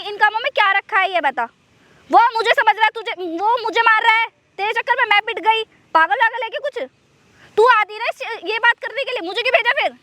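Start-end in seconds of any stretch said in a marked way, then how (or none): 2.1-9.9 higher-pitched, indignant protest; worked-up grievance; aggrieved complaint. Acted. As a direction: blame them, pitch climbing. Complains she got beaten for her.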